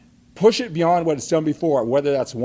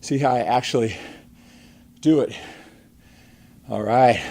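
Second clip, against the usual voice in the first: out of breath; 5 dB louder than usual. Real, not acted. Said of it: "Let me catch my breath here".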